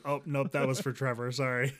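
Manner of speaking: loud, breezy fake apology. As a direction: toss off a fake sorry.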